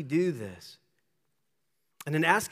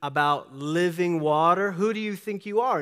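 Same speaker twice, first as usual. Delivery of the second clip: sarcastic; 3 semitones higher, 4 dB louder than usual. Retold or imitated. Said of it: "responds to him sarcastically".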